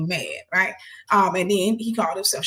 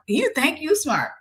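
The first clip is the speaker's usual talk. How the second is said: a sneering, sing-song jab, slowed down; mocking taunt; 8 semitones higher, slower than usual. Boyfriend sneers at her for knowing too much, mocking and slow. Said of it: "he was like".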